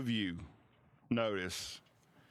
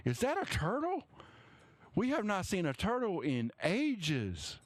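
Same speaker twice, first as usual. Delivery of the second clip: much higher, amazed villager voices; gawking townsfolk; 7 semitones higher, faster than usual. Acted. Townsfolk spotting the turtle in the street, high amazed voices. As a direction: stare and gasp at the turtle, pitched way up. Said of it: "you hear some go".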